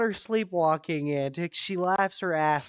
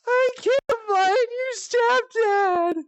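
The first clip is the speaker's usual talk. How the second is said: high, louder worried mother voice; much higher fretful mom voice; distressed sleepwalking mom; 4 dB louder than usual. Retold or imitated. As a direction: play the panicked half-asleep mom.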